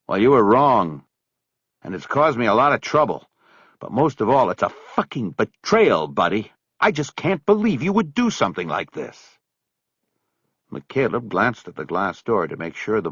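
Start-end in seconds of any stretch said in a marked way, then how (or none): 0.1-9.4 a touch of contained anger; mild hurt rebuke to a friend; angry. Acted. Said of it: "He was so angry".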